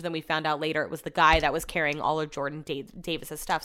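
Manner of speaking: talking with a mouthguard in; words slightly blocked by a mouthguard; wearing a mouthguard. Real, not acted. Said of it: "mouth guard keeps hitting the microphone".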